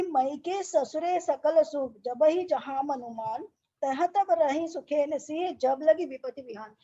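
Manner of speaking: slow, measured chanting of the doha; verse recitation. Acted. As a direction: recite it like a Ramayana reading. Teacher recites Ramayana verse. (धीमा, लयबद्ध दोहा पाठ)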